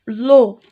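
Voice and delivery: teacher isolating the syllable with O; syllable stressed. Shown as a demonstration. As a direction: pull out the syllable "lo.". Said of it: "Vélo".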